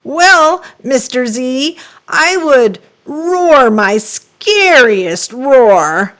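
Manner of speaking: high, slow eager monster voice; a timid monster boasting slowly; lightly voiced young monster; Genghis the monster. Genghis character voice.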